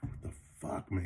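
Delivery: whispered, soft disbelief; stunned whisper. Retold or imitated. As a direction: breathe it out in shock. Boys stunned he doesn't believe.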